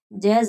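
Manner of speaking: जज़ाअन with a long, level "zaa"; long madd. Shown as a demonstration. Teacher reads again for students, five-alif madd in जज़ाअन. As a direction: hold the middle vowel of जज़ाअन steadily. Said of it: "इसको लंबा करके पढ़ेंगे".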